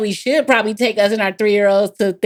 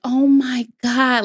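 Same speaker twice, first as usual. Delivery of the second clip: mild dramatic sigh; 6 semitones higher, much slower than usual. Retold or imitated. Daughter upset at disappointing mom.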